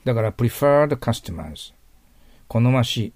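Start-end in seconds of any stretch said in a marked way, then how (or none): 0.3-1.7 slow model phrase. Shown as a demonstration. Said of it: "teacher models phrase".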